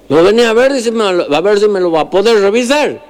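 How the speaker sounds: put-on high-pitched sick old man asking for help; ailing countryman. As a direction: voice the patient well above normal pitch, asking a favour.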